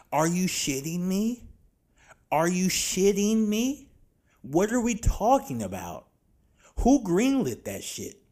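from mild disbelief up to a high, loud rant; each repeat angrier until shouting; incredulous rant growing into a shout; building outrage. Real, not acted. Ranting, repeated louder each time.

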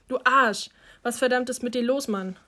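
empörtes Anbrüllen, lauter; wütender Ausruf. Acted. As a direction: schleudere ihm das „Du Arsch!“ entgegen. Julian wird gestoßen, schimpft. (wütend angeschrien)

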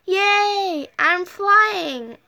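high-pitched little cheer of delight; happy storybook exclamation; excited cheer. A narrator's reading. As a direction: celebrate it, voice lifted. Pet cheers at flying.

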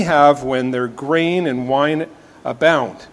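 measured reading of a psalm; scripture reading. Acted. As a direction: read the psalm aloud with reverence. Reads Psalm four aloud.

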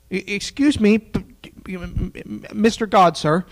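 nervous mock excuse to God; timid protest.

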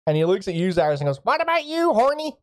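a high, effusive, eager local mage; eager mage Artemis. Acted. Mage Artemis greets the strangers and offers a reward, eager and high. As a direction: gush a welcome over the strangers.

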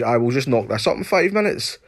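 lightly voiced chipper celebrity chef; mocking chef. Mocking the TV chef's breezy no-worries pitch. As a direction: send up the chef's breezy confidence. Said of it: "He's like".

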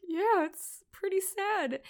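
a hint of a tearful partner, drawn out; imitating Dan. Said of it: "And he's like".

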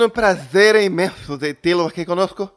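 Pernambuco twang with mock Spanish; hammy Spanish host welcome; Spanish accent. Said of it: "mistura de jaboatonense com um cantor". (sotaque espanhol misturado com jaboatonense)

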